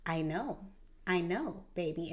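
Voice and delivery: mother softly comforting her upset daughter; soft consoling. Retold or imitated. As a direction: hush and soothe her.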